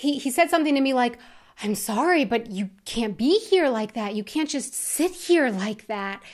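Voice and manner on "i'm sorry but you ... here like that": embarrassed, mortified, low, shame-filled voice. Retelling what an embarrassed server said to the speaker, imitating a server full of shame. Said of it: "with his voice full of shame".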